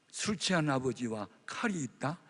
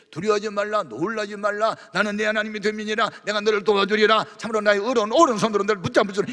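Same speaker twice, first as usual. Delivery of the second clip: higher, louder solemn recital; proclaiming scripture; 7 semitones higher, 9 dB louder than usual. Retold or imitated. Telling the pastor what God said, proclaiming. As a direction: declare the verse with force. Retelling God's word to pastor.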